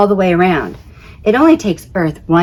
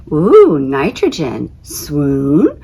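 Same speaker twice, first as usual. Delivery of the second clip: mock swoon; 3 semitones lower, much slower than usual. Mock swooning over own gas.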